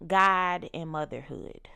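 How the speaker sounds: ordinary talk, nothing marked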